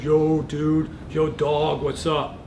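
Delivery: imitating a teen jock greeting; hammed-up dude bro. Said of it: "he does all this, like, performative".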